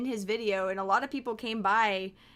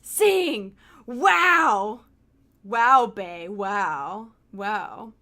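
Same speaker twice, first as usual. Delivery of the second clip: exasperated shout; 9 dB louder, much slower than usual. Real, not acted. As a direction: call out in disbelief. Exasperated at dog in game.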